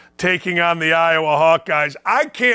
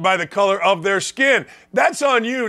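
ordinary delivery

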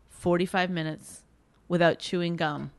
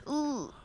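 disgusted ugh; 6 semitones higher, 10 dB quieter than usual. Retold or imitated. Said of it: "watch her go like this".

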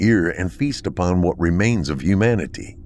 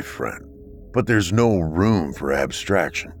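stern bunker dweller. Acted. Akron's slow, measured replies.

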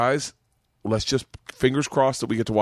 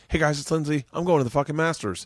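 upbeat vlogger greeting, higher; chirpy vlog intro; 4 semitones higher than usual. Pretend. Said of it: "and be like".

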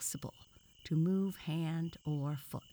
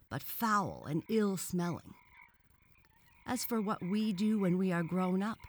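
higher, louder boastful frog lecture; indignant frog; 5 semitones higher, 5 dB louder than usual. Acted. Frog extols tadpoles and toads to the boy, indignantly. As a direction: press the point proudly and emphatically.

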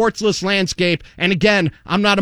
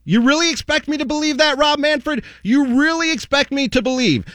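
higher, scornful disbelief; incredulous; 5 semitones higher than usual. Real, not acted. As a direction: throw the question back in disbelief. Incredulous rant.

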